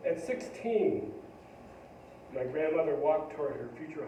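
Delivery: measured poem recital with pauses between phrases; poetry reading. Acted. Commissioned poem about a grandmother read to an audience, poetry reading. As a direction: lift each new sentence, then let it settle.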